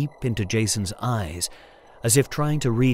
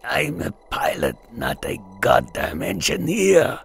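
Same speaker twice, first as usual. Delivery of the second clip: through clenched jaw. A narrator's reading. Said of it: "his jaw clenched with pain".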